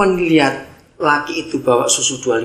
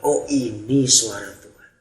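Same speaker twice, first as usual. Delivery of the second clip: tearful awe; 3 semitones lower, 4 dB quieter, slower than usual. Retold or imitated. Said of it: "di mobil itu dia menangis".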